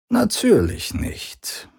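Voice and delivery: very high, drawn-out mocking reply; mocking father. A narrator's reading. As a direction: toss it off in slow mockery. Vader spot.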